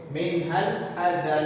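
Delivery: अदल with the doubled लाम drawn out at the stop; held doubled lam. Shown as a demonstration. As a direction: stretch the लाम of अदल a little. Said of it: "को जरा खींच कर पढ़ेंगे". (लाम को ज़रा खींचकर)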